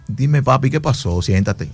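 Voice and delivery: gentle calming. Retold or imitated. Host soothing the weeping man with the gun, softly reassuring. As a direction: settle a crying man down gently.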